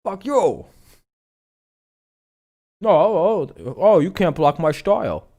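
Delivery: high-pitched cocky taunt, drawn out; mock aggressive. Streamer acting out an aggressive player, mock-cocky taunting. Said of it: "Oh, he's aggressive. He's like".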